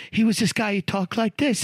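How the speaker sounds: lightly imitated Italian guy accent. Telling co-hosts about a racist coworker, mimicked Italian accent. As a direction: slip into an Italian guy's talk. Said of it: "Italian guy".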